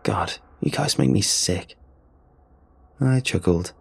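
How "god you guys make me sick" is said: groaning. Acted. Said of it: "Bradley groaned".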